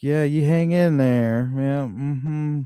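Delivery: lightly voiced wife brushing him off while distracted; bored dismissive wife. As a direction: drag it out like she's doing her nails. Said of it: "I can hear it in her voice".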